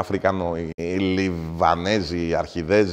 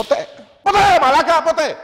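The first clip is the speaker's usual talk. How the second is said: much higher, louder yell; furious shout; 8 dB louder than usual. Real, not acted. Comic yells at the host that nobody calls him a thief. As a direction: scream the denial.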